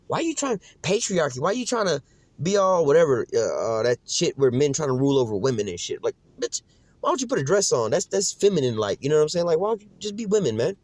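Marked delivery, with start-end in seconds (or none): 0.1-7.9 mock woman's reply. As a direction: sneer it back as the offended woman. Mocking women's reply.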